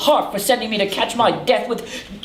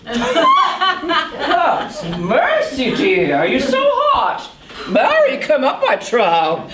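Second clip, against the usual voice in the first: mock scolding; 3 semitones higher than usual.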